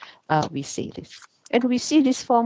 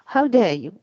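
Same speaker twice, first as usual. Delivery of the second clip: scolding; 4 semitones higher, 4 dB louder than usual. Shown as a demonstration. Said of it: "actually you are scolding the person".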